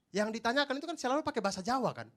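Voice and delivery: ordinary delivery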